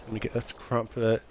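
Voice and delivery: lightly mocked British accent; a hint of imitated British speech. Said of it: "like a British person".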